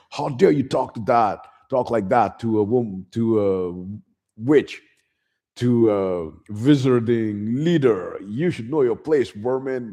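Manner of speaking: slightly hammed-up haughty rebuke; mock indignation. Umbridge scolding the centaurs, mock indignant. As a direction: raise it in affronted, self-important outrage.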